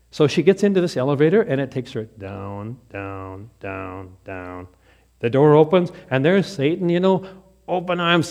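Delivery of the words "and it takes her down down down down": each down quieter and lower, slowed; sinking away to a hush. A narrator's reading. Telling the elevator ride down, fading to a hush. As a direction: let the voice drop with the elevator.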